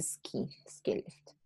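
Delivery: "ski lift" modelled softly; pronunciation demo. Shown as a demonstration. Teacher shows the important pronunciation, "ski lift" said softly. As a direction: quietly show how to say "ski lift". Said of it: "The important thing is the pronunciation".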